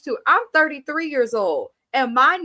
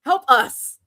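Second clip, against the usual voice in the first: slow, louder plea; mock pleading; 7 dB louder, slower than usual. Daniel begs his uncle, slow loud mock plea. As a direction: beg it drawn out. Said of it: "He said".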